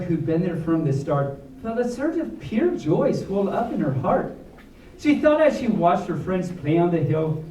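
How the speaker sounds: lively storybook read with rhyme; reading to children. A narrator's reading. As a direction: read the rhyming story to the kids. Reads picture book aloud.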